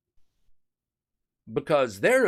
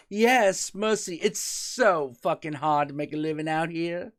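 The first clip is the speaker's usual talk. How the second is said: mock Southern accent, higher; a lightly put-on Southern belle welcome; hammed-up Southern accent, light; 4 semitones higher than usual. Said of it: "I gave them Southern accents".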